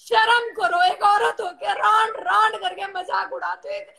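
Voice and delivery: tearful, hurt scolding; crying while protesting. Real, not acted. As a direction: scold them through real tears. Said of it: "मत रो शेरनी".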